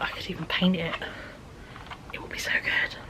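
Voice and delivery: soft whispered musing to herself; whispered daydream. Retold or imitated. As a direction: whisper it like a secret plan. Own excited thought, retold.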